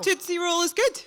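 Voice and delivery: Scottish accent on Tootsie Roll. Real, not acted. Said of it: "That sounds funny in a Scottish accent".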